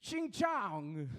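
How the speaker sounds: crude mock Asian accent, lightly done; a clumsy put-on Asian accent, half-laughing.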